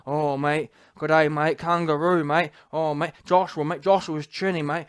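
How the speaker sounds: hammed-up Antipodean "mate" patter; Joseph Parker. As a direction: send him up in a low Aussie voice. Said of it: "Joseph Parker".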